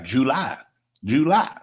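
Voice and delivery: "July" as JOO-LIE, lifting on the second syllable; "July" with a full "joo" and a rising "lie"; Mississippi July. Retold or imitated. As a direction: imitate Mississippi folks saying "July" in two full syllables. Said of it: "when I talk to my Mississippi folks".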